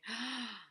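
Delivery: gasp. Real, not acted. Realising she's off the hook.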